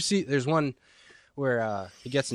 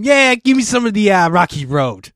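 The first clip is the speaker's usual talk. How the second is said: much higher and louder, dopey voice; dim customer voice; 9 semitones higher, 11 dB louder than usual. Retold or imitated. Retelling a movie scene, loud high dopey customer. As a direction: play the clueless guy ordering ice cream. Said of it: "he can't read. So he's trying to order ice cream".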